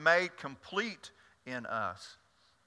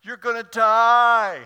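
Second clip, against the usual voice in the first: high, loud, slow with a laugh; loud blurted punchline; 8 semitones higher, 14 dB louder, slower than usual. Acted. Wife's punchline in a joke.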